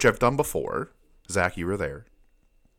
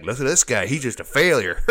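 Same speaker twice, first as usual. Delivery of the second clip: mocking voice; 5 semitones higher, 5 dB louder than usual. Mock voice of people judging him.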